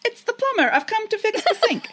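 high, hammed-up plumber at the door; plumber impression. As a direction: belt out the silly plumber line. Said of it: "I wanna say".

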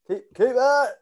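high, drawn-out mock squeal; loud, comic high shriek of a call; high-pitched squeal. Mate mimicking the embarrassing football shout, high squeal. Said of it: "You're the one with high voice".

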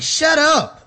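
high, loud exasperated shut up; mock snap. Viewer yelling at Davos on screen, high and loud. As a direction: fling it out, fed up. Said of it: "I was like".

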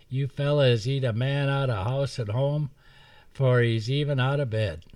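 a hint of a squealy old hermit complaining; grumpy old woodsman. Woodsman complains the boys eat him out of home. Rancid voiced in story.

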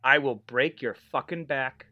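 lightly voiced wrestling heel threat; Iron Sheik. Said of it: "This is for the Iron Sheik".

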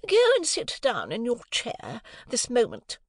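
high, slow, imperious order; stern command. A narrator's reading. Mother ordering Jane to her chair, high and stern. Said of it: "retorted Missus Pocket".

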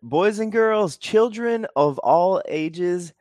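booming big-top announcer, high and loud; ringmaster. Acted. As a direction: call it out like a circus ringmaster. Grand show opening to listeners.

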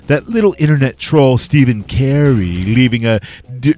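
man lightly doing a woman's voice; Lulu voice. Retold or imitated. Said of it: "That's just me doing, uh, your girl Lulu's voice".

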